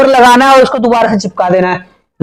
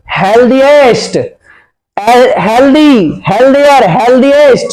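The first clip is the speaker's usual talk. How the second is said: slow stressed word; slower than usual. Shown as a demonstration. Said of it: "मैं भी बना देता हूँ".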